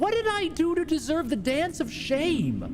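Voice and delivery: high, outraged question. Acted. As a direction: demand it, wounded and high. Offended creature.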